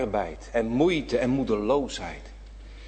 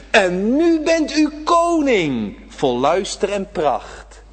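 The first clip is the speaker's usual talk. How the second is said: lyric recited; 4 semitones higher, 3 dB louder, slower than usual. Acted. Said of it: "Ik zeg het met een lied".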